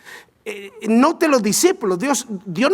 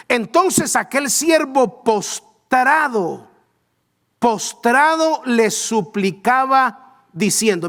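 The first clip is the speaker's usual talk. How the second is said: slow dramatic reading; 3 semitones higher, slower than usual. Shown as a demonstration. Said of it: "lectura dramática".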